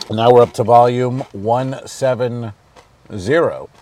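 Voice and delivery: talking over crunching chips; words over a mouthful of chips. Real, not acted. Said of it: "Can you hear my crunching?".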